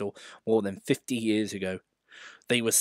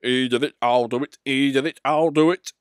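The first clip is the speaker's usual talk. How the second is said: louder rhythmic engine panting; 3 semitones higher, 6 dB louder than usual. Acted. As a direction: pant it like a racing engine. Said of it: "he panted".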